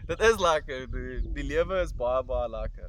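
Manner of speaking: loud, animated South African voice; playful Afrikaans. Acted. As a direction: relish each lekker.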